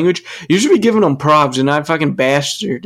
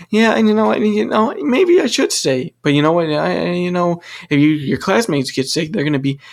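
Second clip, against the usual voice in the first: much higher, mock-cheerful sing-song; sarcastic mimicry; 4 semitones higher than usual. Imitating the happy answer the teacher expected, mocking. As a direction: parody the expected cheerful reply.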